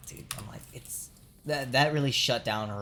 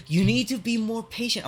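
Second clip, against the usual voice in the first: high, loud mocking impression of the boss; 11 semitones higher, 8 dB louder than usual. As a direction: sneer it high and loud as a smug manager. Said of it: "They're like".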